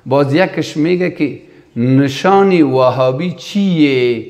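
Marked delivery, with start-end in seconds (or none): 1.8-4.2 lightly imitated Iranian Persian accent; slow, drawn-out question in mock Iranian accent. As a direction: put on a slight Iranian accent, stretching the ending. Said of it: "لهجه ایرانی است".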